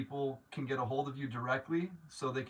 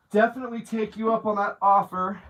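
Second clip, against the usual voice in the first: higher and louder, beaming; excited acceptance; 7 semitones higher, 10 dB louder than usual. Real, not acted. Accepting a viewer's offer to stay, excitedly. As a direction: jump at the offer.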